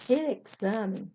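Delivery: "examen" stressed on the XA; stress on penultimate syllable. Shown as a demonstration. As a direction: lean on the middle syllable of "examen". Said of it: "Porque é a penúltima sílaba tônica". ("examen" com a penúltima sílaba tônica)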